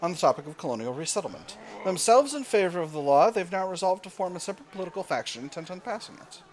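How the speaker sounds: a hammed-up fake British accent, grandly declaimed; terrible British accent. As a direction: read the event like a pompous British orator with a bad British accent. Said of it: "doing my terrible British accent for all of my, uh, all of our event text".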